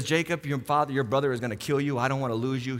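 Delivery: low, soft, acted urgency; hushed motherly warning. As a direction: voice a mother secretly warning her son. Mother secretly warns her son.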